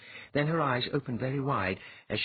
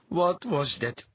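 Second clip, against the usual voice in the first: slow, insistent question, higher; demanding; 8 semitones higher, 4 dB louder, slower than usual. A narrator's reading. Latha demanding Dwyer explain the emptiness. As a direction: press hard for an answer. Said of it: "she demanded".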